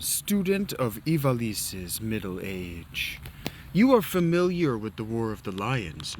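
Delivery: hushed, grand storyteller read; hammed-up historian voice; dramatic narration. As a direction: lay out the legend with gravity. Reads game intro dramatically.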